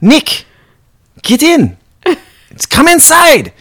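high mock vampire calling Nick inside; exasperated vampire. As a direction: coax him inside like an annoyed elder.

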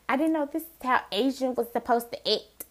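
lightly exaggerated stereotypical Black accent; mock put-on accent. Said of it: "they have this, this accent".

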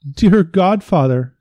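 high, loud horrified cry. Acted. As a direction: gasp it out in horror. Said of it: "said the horrified physician".

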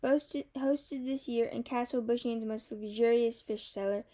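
mock grand host announcing a banquet; playing the proud host of a fish cellar feast; festive. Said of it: "in my most festive voice".

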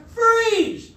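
high shouted command; cop shout. Retold or imitated. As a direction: bark it like a cop. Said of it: "cop jumps out".

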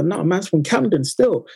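light London roadman slang voice; london roadman accent. Retold or imitated. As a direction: lightly imitate a Camden roadman. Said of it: "you're allowed to talk like that".

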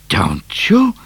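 high, breathy sly whisper; whispered "Don't you". A narrator's reading. Cat answers slyly.

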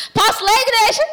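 high, loud call to the congregation; loud rallying call. Real, not acted. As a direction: rouse the crowd with a laughing shout. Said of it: "Tá melhorando".

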